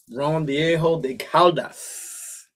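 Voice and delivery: Ron Viejo de Caldas read slowly and carefully in plain American English sounds; no Spanish accent. Real, not acted. Reading the rum label for viewers, slow and careful, unaccented. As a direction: spell it out word by word, no Spanish flavor. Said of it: "lack of Spanish accent when I say it".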